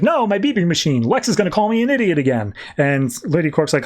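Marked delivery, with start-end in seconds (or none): 0.0-2.5 higher, mildly wailing about her machine; a light mock wail of loss; whiny dismay. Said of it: "Supergirl's like".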